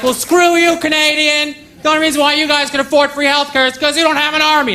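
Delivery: high, hammed-up irate American voice; mock angry American. American heckler mocking a Canadian, high and hammed-up. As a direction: squeal it out like an offended patriot. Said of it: "They're like".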